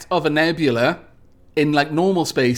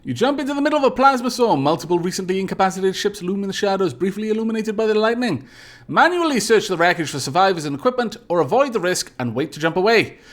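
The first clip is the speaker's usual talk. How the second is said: brisk, raised game narrator; dramatic story narration; 4 semitones higher, faster than usual. Acted. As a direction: read the event out briskly and dramatically. Reads game event text aloud.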